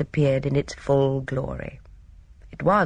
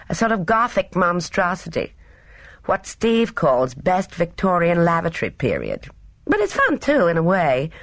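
lightly voiced young woman, higher; breezy young Gina; 4 semitones higher than usual. Gina describing Stonygates to Miss Marple, lightly breezy. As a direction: chatter breezily, a touch higher.

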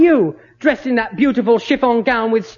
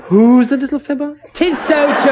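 posh eager schoolboy; 4 semitones higher, 3 dB louder than usual. Acted. Childish teasing retort.

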